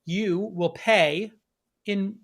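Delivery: measured show-host delivery with punched key words; news presenter read. Real, not acted. Host opens the first story for viewers, presenter read.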